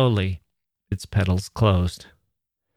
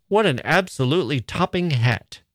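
mock posh compliment; 5 semitones higher than usual. Laurie mimics a society voice.

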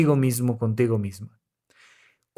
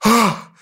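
demo exhale; 5 semitones higher, 4 dB louder than usual. Shown as a demonstration. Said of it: "Y sientes como".

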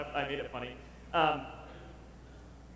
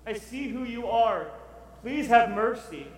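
high, slow plea for mercy; Habakkuk pleading; 5 semitones higher, 4 dB louder, slower than usual. Retold or imitated. Habakkuk pleading with the Lord for mercy, high and slow. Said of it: "Habakkuk is saying".

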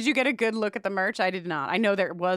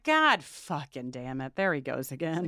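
exasperated Scully; 5 semitones lower than usual. Retold or imitated. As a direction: mutter it like a fed-up agent. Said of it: "Scully's always like".

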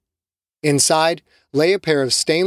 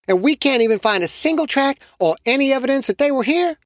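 higher, reasoning voice; skeptical Shamiqua; 7 semitones higher than usual. Acted. Shamiqua doubting the search, higher voice. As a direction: lay out the doubt.

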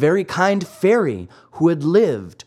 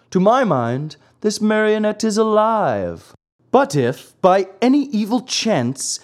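high, pompous owl doctor; 4 semitones higher than usual. Acted. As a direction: contradict a colleague grandly. Owl contradicts the crow.

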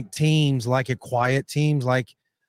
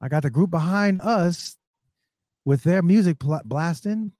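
golf commentator; 5 semitones higher than usual. Pretend. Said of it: "look at you play by play".

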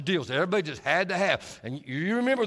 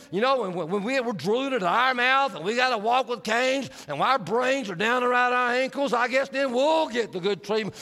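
sarcastic grumble; 5 semitones higher than usual. Retold or imitated. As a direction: grumble like an annoyed man in line. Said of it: "the guys behind us really were upset".

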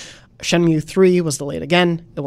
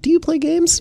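mocking question; 13 semitones higher, 3 dB louder than usual. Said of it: "don't ask anyone".

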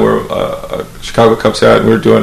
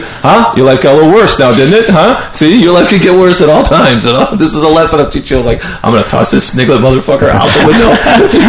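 mocking Rich; 5 semitones higher than usual. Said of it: "He goes".

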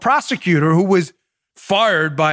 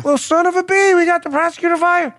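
higher, proud mock brag; proud bragging Joe; 9 semitones higher than usual. Host mimics Biden bragging about the firing, proudly smug. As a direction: brag it like a pleased politician. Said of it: "He's proud of it".

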